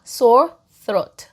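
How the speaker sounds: throat with the tongue between the teeth; th sound demo. Shown as a demonstration. Teacher shows the th sound in throat. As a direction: bite the tongue lightly for the th in throat. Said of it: "혀를 무셔야 됩니다".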